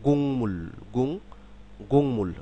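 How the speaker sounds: "গুংমুল" with k turned to ng; word pronunciation. Shown as a demonstration. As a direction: say "গুংমুল" joined, humming ng into m. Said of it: "এটি হবে".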